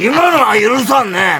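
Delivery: slow, lightly voiced stern elder; stern elder impression. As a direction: drag it out like a grumbling boss. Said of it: "カッツみたいな感じ". (ゆっくりした軽い親分口調)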